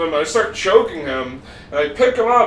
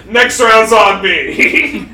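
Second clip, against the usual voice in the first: slow, laughing delivery of the line; laughing through quote; 3 semitones higher, 5 dB louder, much slower than usual. Retold or imitated. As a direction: crack up while you say it. Quoting bar owner while laughing.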